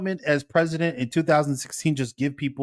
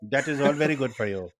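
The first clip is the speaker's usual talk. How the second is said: put-on Indian accent; 3 semitones higher than usual. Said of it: "Why are you doing it in the Indian accent?".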